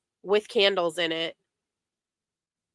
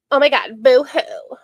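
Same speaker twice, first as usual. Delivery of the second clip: mock boo-hoo; 3 semitones higher, 6 dB louder than usual. Mocking fake sympathy.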